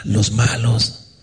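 slow, slightly hushed evil-spirit voice; lightly voiced spirit whispering temptation, drawn out; unclean spirit. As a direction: imitate a sly spirit, slowly. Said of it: "escuchaba espíritus inmundos hablar".

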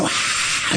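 breathy mock scream "Aaah"; imitated crowd scream. Preacher retelling a dream to the congregation, imitated scream. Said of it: "la gente gritaba, decía".

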